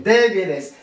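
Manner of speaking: "Débiles" with weight on DÉ; stress on first syllable. Shown as a demonstration. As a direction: land on the first E of "Débiles", then let it fall. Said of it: "accent tonique". (« Débiles », accent tonique sur le premier E)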